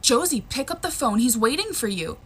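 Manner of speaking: put-on firm parent urging a child; insistent mom. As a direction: press the child to obey. Mom insisting child takes call.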